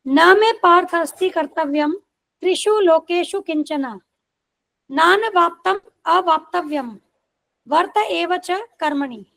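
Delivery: measured, slow recitation of the shloka; Sanskrit verse recitation. Acted. Teacher recites the Gita verse to the class, slow measured recitation. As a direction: intone the verse carefully.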